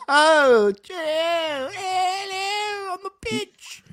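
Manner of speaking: very high, squeaky mock English; silly English accent. Co-host joking about the king and queen's pitch, squeaky English accent.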